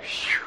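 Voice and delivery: breathy whistle-like exhale; cartoon sigh of relief; phew of relief. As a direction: blow out relief at a near miss. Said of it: "you're like".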